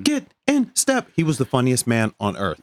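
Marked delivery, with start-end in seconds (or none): 0.0-1.1 high drill instructor yell. Retold or imitated. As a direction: bark orders like a drill sergeant from hell. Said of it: "he would talk like this".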